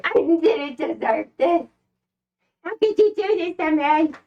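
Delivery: a lightly voiced whiny mom; guilt-trip like a dramatic mom; toxic mother. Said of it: "You're like a toxic mother".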